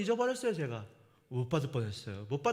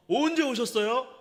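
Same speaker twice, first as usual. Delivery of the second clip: mild surprise; 6 semitones higher, 7 dB louder than usual. Retold or imitated. Pastor's surprised question.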